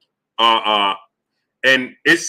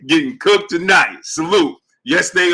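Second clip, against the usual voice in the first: laughing through the words, higher and louder; 6 semitones higher, 3 dB louder than usual. Real, not acted. Host laughing while reading a viewer's super chat. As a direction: cracks up mid-read.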